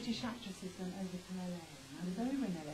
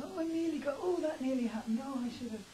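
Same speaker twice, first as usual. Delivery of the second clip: mock regretful; 7 semitones higher, 4 dB louder than usual. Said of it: "spend your life going".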